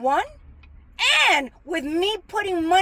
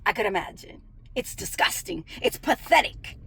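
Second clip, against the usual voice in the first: lower, much softer, trailing into a whisper; muttered reply; 9 semitones lower, 5 dB quieter than usual. Retold or imitated. Answering the coworker about the mooching families, disgusted mutter. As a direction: mutter it under the breath in disgust. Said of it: "And I'm like".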